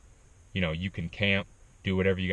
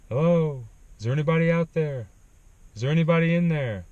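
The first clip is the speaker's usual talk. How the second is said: raised, higher voice calling into the dark; calling out from afar; 6 semitones higher, 4 dB louder, faster than usual. Retold or imitated. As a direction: call out loud toward a tent in the night. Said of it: "the sound of someone yelling".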